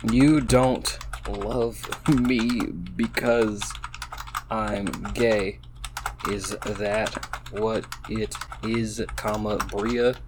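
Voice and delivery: very slow, soft, hurt delivery; tearful. Acted. Player voicing Chrissy's tearful question to Bria, slow and hurt. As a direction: read it like she's holding back tears. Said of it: "she said with tears in her eyes".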